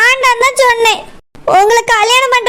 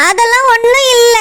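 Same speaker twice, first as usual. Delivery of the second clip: tearful denial; crying. Acted. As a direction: deny it through tears. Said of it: "அழுவுறியோ". (அழுகையுடன் மறுத்தல்)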